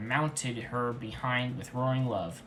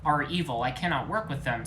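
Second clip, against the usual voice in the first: stubborn; 3 semitones higher, 4 dB louder than usual. Acted. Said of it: "with stubbornness".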